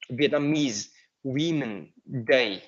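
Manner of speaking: "Vietnamese Women Day" slowly, word by word; slow teacher's model of "Vietnamese Women Day"; careful pronunciation model. Shown as a demonstration. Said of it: "phát âm là women".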